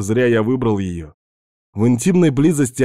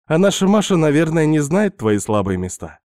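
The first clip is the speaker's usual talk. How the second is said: higher, teasing seductress voice; Svetka's voice; 6 semitones higher than usual. Acted. Narrator voicing Svetka tempting the married man, higher teasing voice. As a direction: play the pushy houseguest luring him in.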